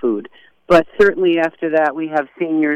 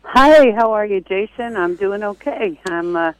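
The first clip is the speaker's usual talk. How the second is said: slightly winded from chores; a bit breathless, just came in from the barnyard; out of breath; 4 semitones higher than usual. Real, not acted. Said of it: "sorry if I sound a little out of breath".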